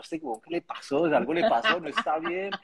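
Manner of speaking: mock concern for a friend; recalling fear that something was wrong; worried surprise.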